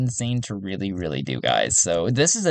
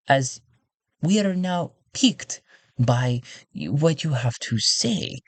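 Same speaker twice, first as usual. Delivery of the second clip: alluring courtier. Acted. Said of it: "I felt like I lost her voice".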